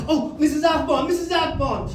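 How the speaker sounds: high, eager schoolkid imitation; eager pupil. Kid in French class calling teacher, high and eager. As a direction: call the teacher in a high child voice.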